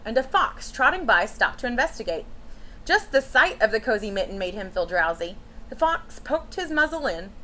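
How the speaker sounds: put-on gentle read-aloud for children; storybook reading. A narrator's reading. Teacher reading a picture book to children, storytelling voice. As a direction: read it like story time to a class.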